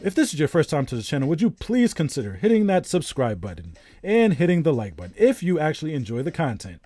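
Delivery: slightly faked announcer read. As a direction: read the plug like a radio announcer. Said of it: "I gotta work on my announcer voice".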